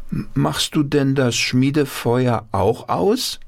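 put-on high, eager child asking; child's question. A narrator's reading. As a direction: sound like a worried little kid. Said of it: "fragten seine Enkelkinder". (hohe, fragende Kinderstimme)

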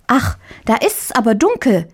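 put-on a girl nervous in the dark; uneasy little girl. A narrator's reading.

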